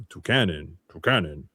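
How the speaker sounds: low, solemn call of its own name; Toucanon's cry. Retold or imitated. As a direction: intone it like a big tribal bird chief. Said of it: "Toucanon, who's the leader... is like".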